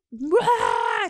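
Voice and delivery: drawn-out "waah" of something swelling; imitated burst. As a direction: let out a big mock "uaah". Imitates her swelling into a giant.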